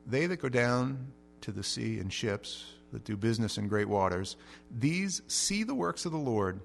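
slow, measured reading of the psalm; scripture reading. Acted. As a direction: read the verses solemnly.

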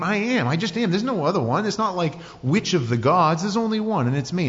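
a hint of God's bold voice; proclaiming God. God declaring his name.

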